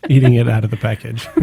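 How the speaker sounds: laughing. Real, not acted. Laughing at their chocolate mishap.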